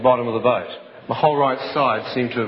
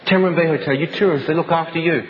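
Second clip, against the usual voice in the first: put-on higher, foreign-accented driver voice; angry taxi driver; 4 semitones higher than usual. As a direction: brush him off like a gruff cabbie. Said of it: "he got angry with me".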